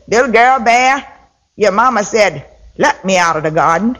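put-on a light rabbit voice quoted by a child; girl imitating Brer Rabbit. The girl mimics Brer Rabbit for her mother, lightly voiced. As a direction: put on the rabbit's sly ask.

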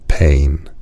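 tiger voice. A narrator's reading. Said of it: "said the tiger".

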